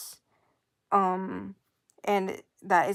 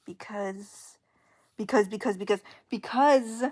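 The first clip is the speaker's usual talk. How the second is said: jittery; 4 dB louder than usual. Real, not acted. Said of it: "I'm jittery right now".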